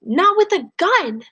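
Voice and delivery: high, slow, loud cry; grandma yelling at her husband, high and slow; yelling grandmother. Acted. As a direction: yell it out as an upset grandma. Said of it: "Graham yells".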